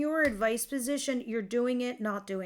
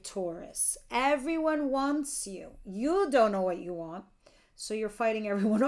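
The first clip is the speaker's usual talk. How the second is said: normal talking voice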